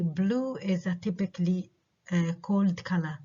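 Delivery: slow statement, falling on "Blue" and on "color"; falling intonation. Shown as a demonstration. Teacher reads example sentence B, falling intonation on "Blue" and "color". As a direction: let "Blue" and "color" each fall. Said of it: "falling، falling على blue وعلى color".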